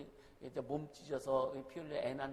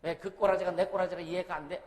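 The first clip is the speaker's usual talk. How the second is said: exasperated outburst; 2 semitones higher, 10 dB louder than usual. Real, not acted. Preacher scolds congregation.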